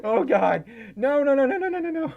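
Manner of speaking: high, giggly, flustered protest; laughing panic. Real, not acted. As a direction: squeal the refusal between laughs.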